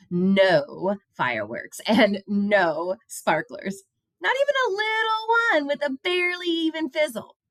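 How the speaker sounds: a hint of a firm teacher; stern teacher. A narrator's reading. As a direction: lay down the rule to the class. Teacher quoted.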